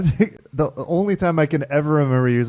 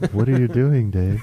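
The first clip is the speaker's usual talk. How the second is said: even, machine-like questioning; monotone computer. Acted. Computer questioning Dave, in a monotone. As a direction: question him like a talking computer. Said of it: "computer starts talking into a monotone".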